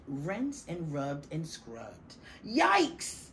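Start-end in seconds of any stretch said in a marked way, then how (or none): 2.4-3.3 high shrieking yelp; germ screaming. Acted. Germ screaming while swirling down the drain. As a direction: squeal it as you go down the drain. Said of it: "screamed the germ".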